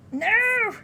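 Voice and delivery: loud, high protesting cry; frustrated yell. Real, not acted. Player protesting at the game, frustrated yell.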